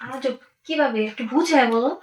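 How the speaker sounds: hushed, secretive whisper. Acted. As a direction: breathe it so nobody overhears. Wife secretly plotting with lover.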